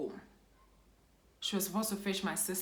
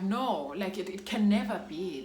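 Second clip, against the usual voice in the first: loud denial; 2 semitones higher, 5 dB louder than usual. Retold or imitated. Denying the mother's death.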